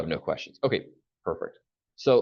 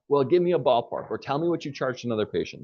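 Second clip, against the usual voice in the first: pushy caller; 5 semitones higher than usual. Retold or imitated. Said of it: "they're already prepared with that".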